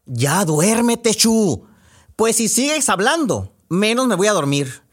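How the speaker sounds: put-on a kid telling the other to hush; mock sibling hushing. A kid in bed hushing her chatty sibling, mock scolding.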